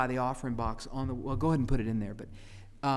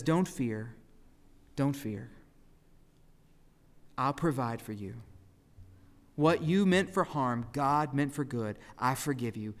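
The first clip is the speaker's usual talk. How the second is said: gentle comfort. Acted. Joseph comforting his brothers.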